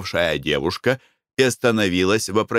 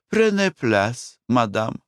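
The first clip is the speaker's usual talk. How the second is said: stiff schoolbook French; 3 semitones higher, slower than usual. Acted. Wife invites owner in French.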